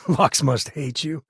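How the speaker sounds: amused laugh. Acted. Laugh on line.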